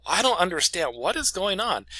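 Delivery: re-enacted helpless puzzlement; acted bewilderment. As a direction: plead confusion to the boss. Acted confusion at boss's accusation.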